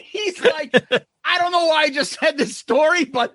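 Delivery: laughing through the retelling; high and giggly, cracking up; chuckling along at the story's punchline. Real, not acted.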